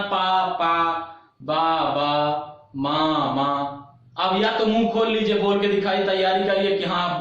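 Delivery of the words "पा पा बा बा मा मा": पा, बा, मा each said twice, in a lower voice; doubled syllable demo. Shown as a demonstration. Teacher shows sounds needing closed lips, doubled syllable demo of पा, बा, मा. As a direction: repeat each lip sound as a pair, पा पा, बा बा, मा मा. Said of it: "अब बोलिए, जैसे आपको बोलना है".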